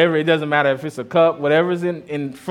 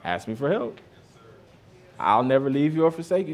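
gentle God; 2 semitones lower, 4 dB quieter than usual. Retold or imitated. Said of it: "and God is saying".

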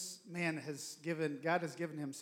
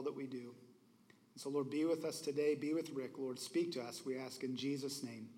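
steady, reverent pastoral prayer; earnest prayer. Real, not acted. Pastor praying for the guest preacher before he speaks, earnest prayer. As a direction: pray over him sincerely, like a pastor in church.

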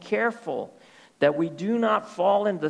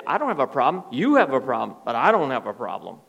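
defiant denial; 6 semitones lower, faster than usual. Retold or imitated. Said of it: "they say".

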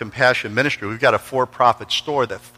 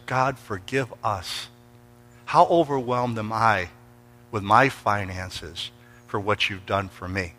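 slow, hushed confession; humble prayer; 2 semitones lower, 6 dB quieter, slower than usual. Retold or imitated. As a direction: pray it softly and slowly, humbled. Retold humble prayer to God.

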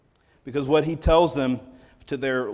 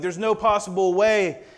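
desperate Moses; 5 semitones higher than usual. Retold or imitated.

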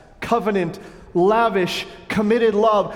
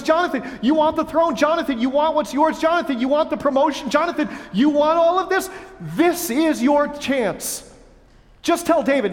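tempting Saul; 8 semitones higher than usual. Retold or imitated. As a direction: lure him in like a scheming king. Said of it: "He says".

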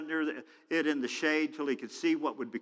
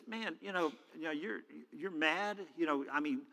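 hushed, halting appeal; gentle reasoning; 8 dB quieter than usual. Acted. God talks to Jonah about his anger, softly reasoning.

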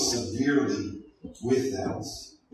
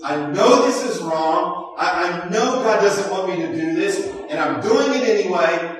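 rising, louder, stubborn declaration from a defiant sinner; defiant sinner voiced; 4 semitones higher, 5 dB louder than usual. Preacher voicing a willful sinner to the congregation, rising to a loud defiant cry. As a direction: build it up into a stubborn cry of self-will.

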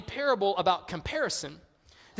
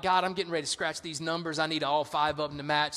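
low, hurried pleading; mock desperate prayer; 4 semitones lower than usual. Gambler praying over scratch-off numbers, low and pleading. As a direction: rattle off a begging prayer under your breath.

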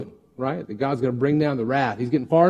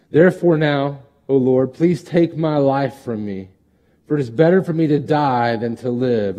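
scripture reading. Acted. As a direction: read Jonah's wish to die with weight. Reads Jonah's plea.

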